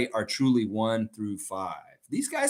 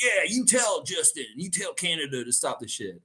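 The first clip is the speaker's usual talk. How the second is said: imitated happy pilot cheering along, high start; all happy; 5 semitones higher than usual. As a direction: egg them on like a delighted pilot. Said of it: "all happy".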